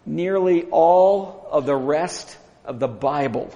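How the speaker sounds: slow, measured delivery with pauses; unhurried, weighty and deliberate; slow emphasis. Real, not acted. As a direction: draw it out phrase by phrase. Slow emphatic first statement.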